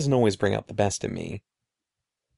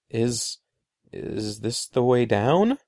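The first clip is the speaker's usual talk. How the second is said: stammering; 3 semitones lower, slower than usual. Acted. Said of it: "I stammered".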